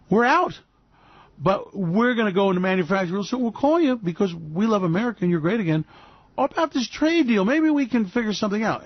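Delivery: lightly voiced gloating seller; smug supplier. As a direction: tease the buyer politely. Voicing Chinese supplier.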